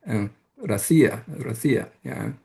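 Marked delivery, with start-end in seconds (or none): 0.6-1.9 "Россия" with a high, stressed "си"; "Россия" stressed on its middle syllable. Shown as a demonstration. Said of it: "both have this high element".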